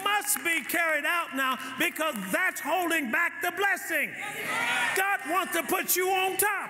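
preaching hard, pitch up and ringing; full-force preaching. Acted. Pastor preaching hard at the congregation, full force. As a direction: drive the sermon home to the church.

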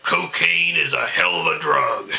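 loud, high punchline; punched comic catchphrase; comic punchline delivery. Acted. Punchline quote, repeated.

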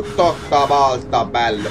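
low, slow stretched catchphrase; Bruno Pezzo. Retold or imitated. Player repeating a catchphrase, slow low imitation. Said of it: "come dice Bruno Pezzo".

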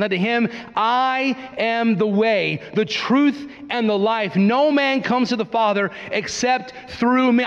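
slow, weighty reading of the verse; measured, reverent recitation; solemn scripture reading. Acted. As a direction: lean into each phrase of the verse. Reading Jesus' words aloud.

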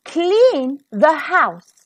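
a touch of bossy calling out; mock-commanding the servant girl; bossy stepfamily orders. Stepfamily barking chores at Cinderella, lightly bossy.

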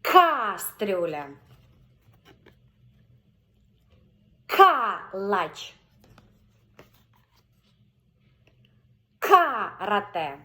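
повільно, з наголосом на К; slow, stressed first syllable. Shown as a demonstration. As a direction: stretch Картина slowly for the child. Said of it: "Акцентуємо увагу тільки на перший склад".

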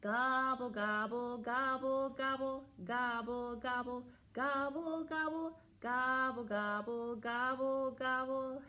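turkey gobble. Shown as a demonstration. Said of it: "What do turkeys say".

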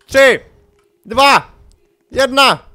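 loud, high count, spaced out; shouted countdown. Real, not acted. Player counts down to the round, loud and high. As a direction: shout each number with a beat between.

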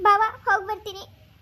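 saying goodbye through tears; tearful goodbye to her brother-in-law; crying farewell. Acted. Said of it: "ಬಿಂದು, ಅಳ್ಬೇಡ".

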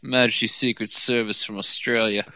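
a light hint of a suave spy voice; James Bond. Friend jokingly introducing himself as a spy. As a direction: play it like a smooth secret agent. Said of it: "My name's Bond, James Bond".

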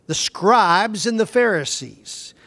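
slow reading that leans on "scribes"; stress on scribes. Shown as a demonstration. Teacher reading scripture to the class, stressing "scribes". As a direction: hit "scribes" hard and draw it out. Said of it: "you notice I emphasized the word scribes?".

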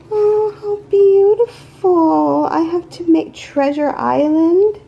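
high, loud cry of delight; delighted gushing. Real, not acted. Admiring charms from a follower, delighted gushing.

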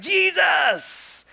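high shout of the crowd's call. Acted. Crowd on the shore shouting to Jesus, high shout. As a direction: call his name across the water.

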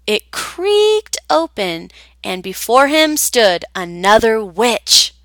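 gentle storybook read-aloud; children's story narrator voice; story narration. A narrator's reading. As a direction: tell it like a bedtime tale.

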